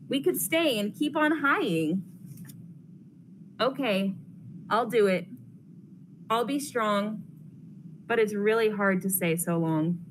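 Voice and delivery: lively storybook read-aloud for a class; reading to children. Acted. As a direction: read it brightly to the kids, pausing between pages. Reads picture book to class.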